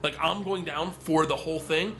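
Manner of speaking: high-pitched mock disbelief; retold incredulous dismay. Student seeing the gangster point at him, retold incredulous dismay. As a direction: protest at being made the fall guy. He realizes he is being blamed.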